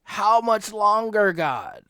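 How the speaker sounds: loud, high crying out to God; martyrs' loud lament; anguished plea. Retold or imitated. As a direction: beg for justice with rising urgency. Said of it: "They go to the Lord and they say".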